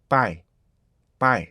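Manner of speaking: "바이" one smooth gliding syllable, low; smooth diphthong. Shown as a demonstration. Teacher modelling the right "buy". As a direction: glide "바이" in one breath. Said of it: "이렇게 읽어야지".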